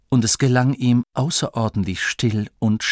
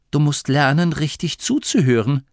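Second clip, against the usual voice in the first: higher-pitched, firm admonishment; instructive; 6 semitones higher than usual. Acted. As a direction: lecture him on listening. Grimma belehrt Masklin. (belehrend, bestimmt)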